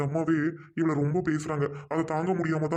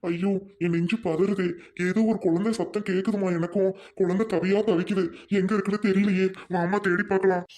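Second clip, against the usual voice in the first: alarmed; 4 semitones higher than usual. Acted. Husband alarmed by child's cry.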